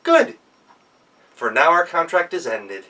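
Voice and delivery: triumphant Hans. Acted. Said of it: "And Hans smiled".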